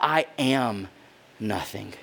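a man who believes he is nothing, fading out; sinking to a near-whisper. Retold or imitated. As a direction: let it drop away, defeated.

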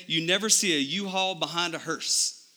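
folksy Texas accent. Shown as a demonstration. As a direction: say it like a Texan saying. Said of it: "say that with a Texas accent".

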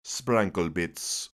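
slow drawn-out brand name; slow tagline. Acted. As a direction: draw it out slowly.

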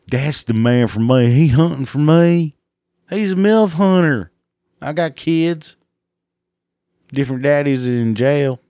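high, loud swooning hick woman; mock redneck woman. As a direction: gush over him like a smitten redneck mom. Mocking redneck women admiring sticker.

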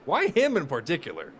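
high, far mocking whine of a celebrity; mocking falsetto whine of a baffled critic; mock outraged whine. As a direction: ham up an indignant celebrity.

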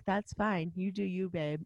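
put-on soft, low, unbothered boyfriend; totally cool. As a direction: let her go quietly, utterly unfazed. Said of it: "how totally cool he was".

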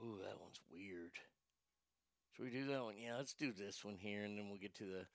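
very quiet, low aside; low, barely audible musing; talking to himself. Real, not acted. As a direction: think aloud under your breath while choosing. Picking stories, talking to himself.

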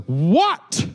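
mom's surprised high "What?"; mother turning to her child, surprised; sharp question. Retold or imitated. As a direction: snap round at the call. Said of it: "she turns around and goes".

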